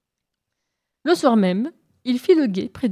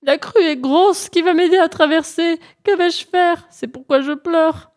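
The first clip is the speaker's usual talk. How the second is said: pleading, higher lament over the flood; grave lament, raised pitch; 8 semitones higher, 4 dB louder than usual. Acted. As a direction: voice up, complaining gravely. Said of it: "répliqua Mbolo gravement". (complainte aiguë et grave du lièvre)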